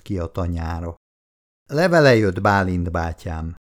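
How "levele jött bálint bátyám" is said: calling from afar. Acted. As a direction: shout it across the yard. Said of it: "kiáltotta már messziről".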